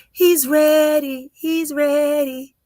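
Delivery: slow, loud, high declaration; proclaiming. Real, not acted. Reader proclaiming the baby is ready, loud and slow. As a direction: announce it with full force, stretching it. Building prophecy about the baby.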